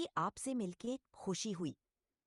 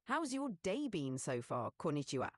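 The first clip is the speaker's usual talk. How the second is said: a hint of Japanese accent, ending in a low "Konnichiwa"; light Japanese accent; 4 semitones lower than usual. Shown as a demonstration. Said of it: "speak Japanese mixed with English".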